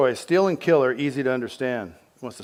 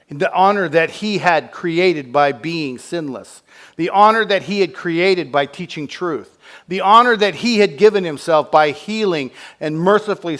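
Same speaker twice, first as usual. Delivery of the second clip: "honor" hit hard each time; each "honor" louder than the last; stress on honor; 6 semitones higher, 9 dB louder than usual. Acted. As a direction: hammer the word "honor", building higher. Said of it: "repeated honor phrase".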